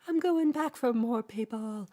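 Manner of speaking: slow, loud heroic declaration; brave dad. Retold or imitated. Pepe's dad going back for survivors, a slow loud vow. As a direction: boom it out slowly like a hero.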